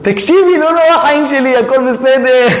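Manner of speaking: high-pitched comforting patter with a laugh; mock reassuring husband. Husband to wife screaming in labour, mock reassurance. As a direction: play a hapless husband consoling his wife. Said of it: "ויגיד לאשתו איזה משהו בזמן שהיא צועקת".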